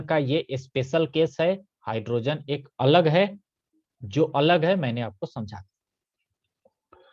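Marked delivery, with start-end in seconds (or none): 4.0-7.0 slow whispered aside to the class; hushed slow aside. Real, not acted. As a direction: drop to a slow whisper, as if confiding. Teacher aside while explaining hydrogen.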